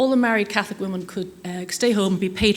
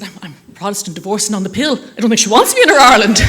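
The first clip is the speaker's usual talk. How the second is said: laughing; 9 dB louder than usual. Real, not acted. Quipping back on live television.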